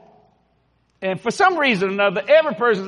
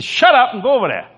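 barked police order; 3 semitones higher, 5 dB louder than usual. Acted. Policeman ordering the driver about.

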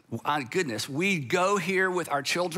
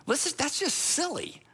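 outsider's exasperation; 4 semitones higher than usual. Retold or imitated. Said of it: "you think to yourself".

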